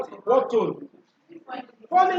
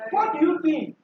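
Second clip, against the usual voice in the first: "What do you think" as a high-pitched question; rising-tone demonstration; 6 semitones higher than usual. Shown as a demonstration. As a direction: raise the pitch to model the question. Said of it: "Rising tone".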